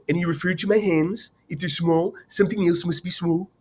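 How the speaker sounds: a light take on Donald Trump's boastful tone; lightly voiced Trump, bragging with assurance; Trump impression. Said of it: "that's my Trump impression".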